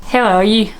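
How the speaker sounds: attempted Northern Irish lilt; Derry accent. Vlogger imitating Derry Girls, Northern Irish. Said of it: "It's like Derry".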